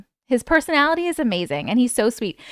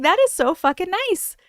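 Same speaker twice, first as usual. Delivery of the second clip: retold gushing gratitude; 7 semitones higher than usual. Retells own touched reply to actor.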